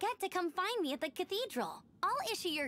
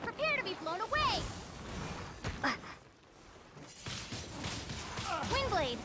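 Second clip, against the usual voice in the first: battle cry; 4 semitones higher than usual. Acted. Amber attacks in battle.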